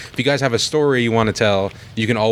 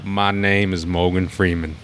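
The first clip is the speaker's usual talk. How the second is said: slow, lower calm narrator voice; slow deliberate gravitas; Morgan Freeman; 3 semitones lower, slower than usual. Shown as a demonstration. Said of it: "that's what he gotta say".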